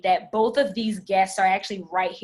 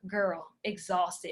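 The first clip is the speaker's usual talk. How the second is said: put-on slower, softer girl, exhausted; tired friend's slow, softer answer; weary sigh-like reply; 2 semitones lower, 5 dB quieter, slower than usual. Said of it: "She's like".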